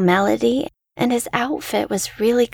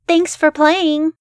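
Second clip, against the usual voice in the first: put-on sudden, higher and a bit slow, as a nervous child; blurted out; 7 semitones higher, 3 dB louder than usual. A narrator's reading. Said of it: "I blurted out".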